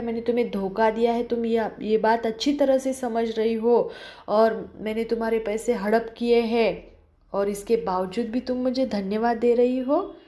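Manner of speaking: fast, mildly heated scolding. Acted. The employer keeps berating Julia, mildly angry. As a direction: keep pushing the accusation quickly. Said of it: "एकदम चिल्ला रहा है".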